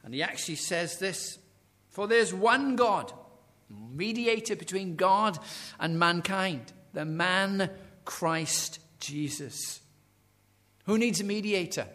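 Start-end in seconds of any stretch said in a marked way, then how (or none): 1.9-9.8 scripture proclamation. Acted. Preacher reading Paul's words to Timothy, slow proclaiming. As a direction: declare each phrase of scripture.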